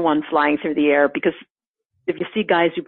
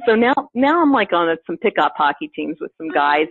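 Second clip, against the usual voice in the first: usual speaking voice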